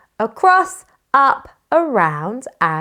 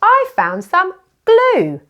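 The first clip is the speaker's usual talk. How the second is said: mock surprise; 9 semitones higher, 3 dB louder, slower than usual. Teacher discovers item in box.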